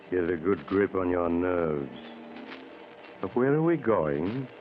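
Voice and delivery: suspenseful host voice savoring each word; old-time radio horror host; radio host narration. A narrator's reading. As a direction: draw the listener into a spooky tale. Host narrator introduces the tale.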